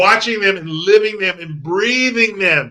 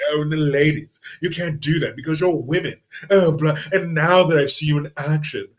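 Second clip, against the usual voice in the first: a faint posh English accent, mocking; 3 semitones lower than usual. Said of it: "more, more posh, more the posh, uh, you know, English accent".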